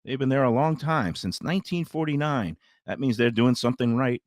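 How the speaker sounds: conversational host-read sponsor spot; easygoing radio pitch. Acted. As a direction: sell the restaurant to listeners in tidy phrases. Reads a restaurant sponsor spot.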